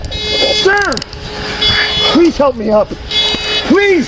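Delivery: pleading. Real, not acted. Cuffed man begging for help up.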